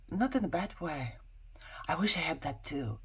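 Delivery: soft confiding whisper; hushed admission of envy; whispered aside. Real, not acted. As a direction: let it slip out as a secret.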